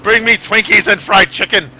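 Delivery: loud, high repeated demand; mock last wish. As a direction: call out the last wish again. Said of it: "That's gonna be my last wish".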